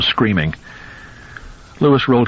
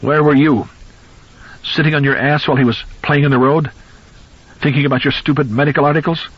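grieving father screams blame at his son-in-law; hectoring scream; 7 semitones higher than usual. Acted. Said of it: "His voice rose to a hectoring scream".

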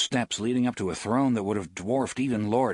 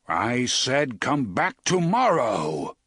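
slow, firm and louder; stern wizard; 3 dB louder, slower than usual. Acted. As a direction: repeat the order sternly. Oz repeats order.

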